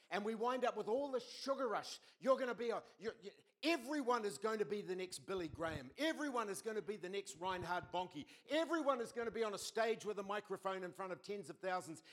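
preacher riding the hype; hyped up. Acted. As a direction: sell it like an overexcited crowd. Sugar rush hype.

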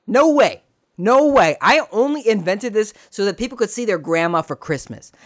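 high, loud mock protest; imitating indignant Urkel. Urkel refusing to profit from invention, mock indignation.

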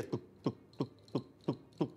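soft, voiceless ticking beats; imitated pulse. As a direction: tap out a heartbeat with the tongue, softly. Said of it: "e eu sentia". (imitando a pulsação, bem baixinho)

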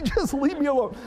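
high, half-laughing exasperated plea; laughing frustrated repeat. Retold or imitated. Dad venting again at his family, half-laughing exasperation. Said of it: "It's like".

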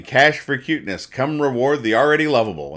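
mock barker. Voicing Wimpy's pitch as a hammed-up street barker. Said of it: "And he's saying".

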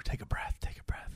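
hushed whisper to steady oneself; retold breath-catching murmur; self-soothing whisper. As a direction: whisper it after a sigh. Retells steadying self against tears.

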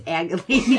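"aggravating" said as AG-yuh-lay-ting; child's mispronunciation. Retold or imitated. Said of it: "trying to say aggravated".

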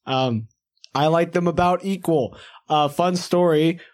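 stiff mechanical robot voice. Acted. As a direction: talk like a robot. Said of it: "I can't do the robot voice forever".

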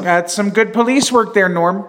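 a hint of a Minnesota Fargo accent. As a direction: lightly quote Fargo with Minnesota vowels.

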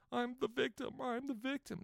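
high, soft mock victim voice; mocking whine. Mimicking the whiny reply letter.

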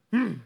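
mock angry "hmm"; short mock-angry child's grunt; mad grunt. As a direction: imitate a cross kid's huff. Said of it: "Then he got mad".

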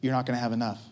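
low, soft, insidious whisper-like voice; low, soft voice of fear and scarcity; the doubting voice. Acted. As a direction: murmur it like a nagging doubt. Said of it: "Then you hear that voice".

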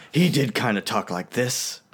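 slow, slightly menacing nasal hero; lightly nasal animated-hero voice, unhurried; nasal Batman. Shown as a demonstration. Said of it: "like, nasally".

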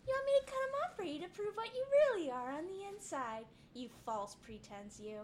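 angry threat. Acted. Druid threatens elf.

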